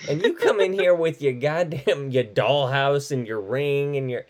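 hammed-up indignant rant; mock outrage. Host acting out anger at a hijacked birthday, mock-indignant. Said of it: "that kind of made me mad".

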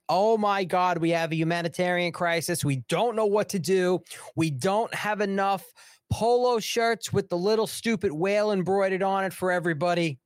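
hammed-up hand-wringing official; mock panic. Official frets over the new arrivals, mock panic.

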